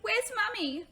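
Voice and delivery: put-on a lost girl pleading for mum; frightened child. Scared girl asking for mother.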